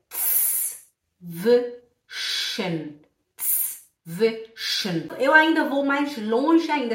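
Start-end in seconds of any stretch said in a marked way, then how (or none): 0.1-5.1 "tss, v, shen" sound by sound, with pauses; "tss... v... shen" slowly split up for learners; broken into sounds. Shown as a demonstration. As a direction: hiss the tss, buzz the v, then say shen. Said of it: "Aí fica".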